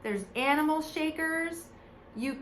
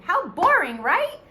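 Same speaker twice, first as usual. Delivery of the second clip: mock boredom; 6 semitones higher, 9 dB louder than usual. Mock complaint to kids.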